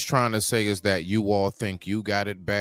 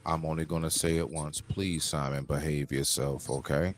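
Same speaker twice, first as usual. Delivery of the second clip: low, controlled firm warning; stern warning; 5 semitones lower than usual. Real, not acted. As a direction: lay down the rule calmly, pitched well down. Host warns panelist to behave.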